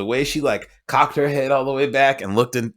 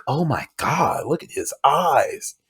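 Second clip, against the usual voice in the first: dreamy mock swoon; 3 semitones higher, slower than usual. Girlfriend swooning over Leo.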